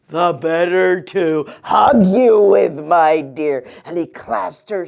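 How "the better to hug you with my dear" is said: louder, sly fake granny; wolf purring his answer; wolf as grandma.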